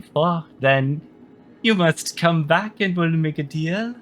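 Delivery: lilting, lightly voiced monarch; scheming queen, businesslike. Queen bargaining over a captive Minos, lightly imperious. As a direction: give orders with a measured royal lilt.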